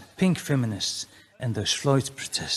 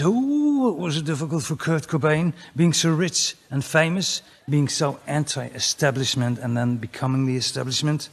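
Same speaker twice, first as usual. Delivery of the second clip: mock pity. Comic mocking a rich, famous rock star's struggle, mock pity. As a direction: exaggerate the woe, sarcastically. Mocking Cobain's supposed suffering.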